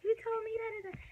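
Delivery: high, loud shocked accusation; screaming. Retold or imitated. Yelling at the ex who turned up outside, loud and high. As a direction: yell it at him in surprise. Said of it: "I was screaming".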